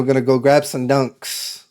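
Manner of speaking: casual Boston-area accent; lightly Massachusetts-accented. Shown as a demonstration. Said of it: "my Massachusetts accent might come out".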